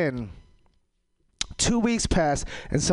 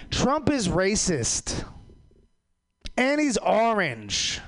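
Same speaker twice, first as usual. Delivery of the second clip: mocking people; 8 semitones higher, much slower than usual. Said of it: "People be like".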